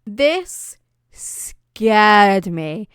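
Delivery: very slow, dramatic delivery; drawn-out emphasis. Real, not acted. Vlogger recalling a childhood scare, drawn out dramatically. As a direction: stretch every word out for effect. Dramatic recap of a scary scene.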